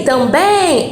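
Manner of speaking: "também" slowed, final "bém" long and stressed; stress on last syllable. Shown as a demonstration. Teacher showing an oxytone, "também" stressed on the final "bém". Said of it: "agora eu tenho uma oxítona".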